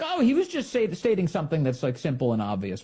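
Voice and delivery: high-pitched start, settling back down; lightly mock someone brushing it off; breezy retold excuse; dismissive paraphrase.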